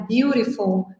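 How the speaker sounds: "beautiful" with every syllable articulated; careful full pronunciation. Shown as a demonstration. Teacher showing students the careful form, "beautiful" fully pronounced. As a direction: say "beautiful" in full, nothing swallowed. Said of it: "Em vez de falar".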